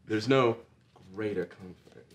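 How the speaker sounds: soft, breathy posing voice; photo-shoot pose promo. Acted. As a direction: seductive photo-shoot murmur. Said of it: "pose as if in photo shoot".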